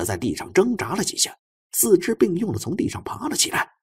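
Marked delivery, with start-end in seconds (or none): none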